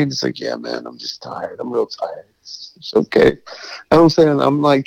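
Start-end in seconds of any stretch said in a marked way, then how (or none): 0.4-3.4 put-on drunk mumble. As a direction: slur it like a wasted brother too tired to care. Voicing drunk brother, exhausted.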